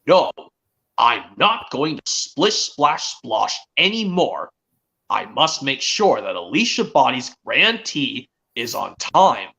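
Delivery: slow, deliberate acted firmness; mildly stern cartoon engine, drawn out; firm character quote, measured and slow; stern Thomas. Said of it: "he's stern and says".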